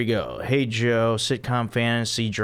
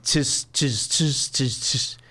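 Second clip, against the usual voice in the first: imitating bass riff; 2 semitones higher, slower than usual. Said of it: "I can't do the Seinfeld music".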